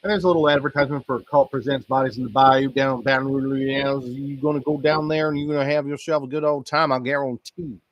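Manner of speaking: a hint of a pitchman selling a Louisiana event; mock ad read. Reads the in-game ad.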